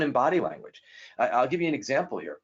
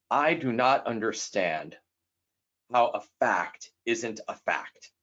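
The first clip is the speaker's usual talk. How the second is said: slow, deliberate statement with long pauses; blunt and direct; slower than usual. Retold or imitated. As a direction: spell it out slowly, mock-blunt and factual. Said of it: "probably a little too blunt, a little too direct".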